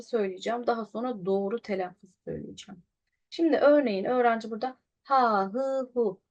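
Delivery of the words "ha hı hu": ha, hı, hu read with plain Turkish vowels and h; "ha, hı, hu" with no throat friction; Turkish-style h. Shown as a demonstration. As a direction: say "ha, hı, hu" as ordinary Turkish syllables. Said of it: "bu Türkçe, bir okumadır".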